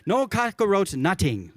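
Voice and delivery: slow Hawaiian Pidgin, "nutting" for nothing; drawn out, savouring the Pidgin phrase. Retold or imitated. Pastor introducing today's commandment, slow Hawaiian Pidgin. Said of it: "That's the Hawaiian Pidgin for do not steal".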